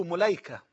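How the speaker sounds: ملايكة with u on mim, a on lam: Mulaika; pronunciation shown. Shown as a demonstration. Preacher teaching viewers the name's vowels, carefully. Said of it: "بالضم على الميم".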